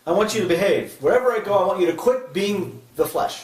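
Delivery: scolding parent. Pretend. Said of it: "should I tell the flesh to stop misbehaving?".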